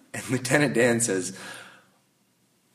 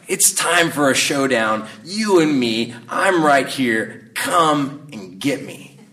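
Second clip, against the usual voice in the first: acted challenge, louder and drawn out; defiant cursing at God; 3 semitones higher, 5 dB louder, slower than usual. Lieutenant Dan atop the mast challenging God to a showdown, acted loud defiance. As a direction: call God out loudly, stretching the final words. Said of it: "curses at God".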